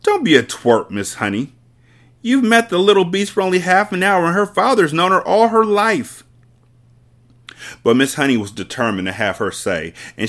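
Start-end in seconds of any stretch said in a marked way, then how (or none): 0.0-6.2 loud, higher scolding tyrant; scornful headmistress. Acted. Headmistress belittling the teacher, loud and scornful. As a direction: talk down to her. Trunchbull belittles Miss Honey.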